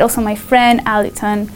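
normal talking voice

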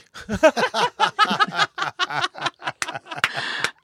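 long, high-pitched laughing fit; real peals of high laughter; laughing hard. Real, not acted. Speaker laughing at coach's jibe about her name, hard laughter.

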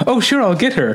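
bright polite phone manner; calm and pleasant. Retold or imitated. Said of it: "very calmly".

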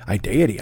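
"Identity" as eye-DAY-uh-tee; mispronounced identity. Shown as a demonstration. Host repeating his slip, "Identity" said eye-DAY-uh-tee. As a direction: say "Identity" like deity, without the n. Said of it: "it popped into my head".

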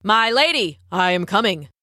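lightly voiced gallant prince; a hint of a storybook prince; prince calling out. A narrator's reading. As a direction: call up to your lady, slightly theatrical.

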